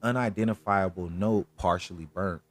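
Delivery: measured, deliberate case read; true-crime narration. A narrator's reading. Host tells viewers about the strange crime scene, measured narration. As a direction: lay out the eerie details for listeners.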